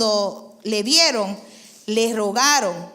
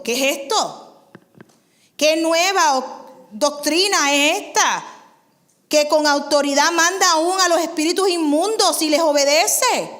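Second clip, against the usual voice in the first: louder amazed exclamations; astonished crowd; 5 semitones higher, 5 dB louder than usual. Acted. Amazed townspeople asking each other, loud. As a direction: marvel aloud at the new teaching. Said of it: "discutían entre sí diciendo".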